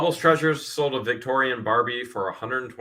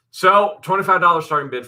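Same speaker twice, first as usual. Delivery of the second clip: loud, higher opening call; auctioneer call; 9 semitones higher, 9 dB louder than usual. Real, not acted. Host opening the Barbie lot auction, auctioneer call. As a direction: open the bidding with punch.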